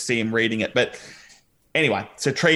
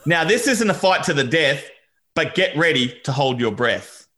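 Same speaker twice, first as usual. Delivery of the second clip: mock-grand reading. Shown as a demonstration. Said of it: "I'll read it out".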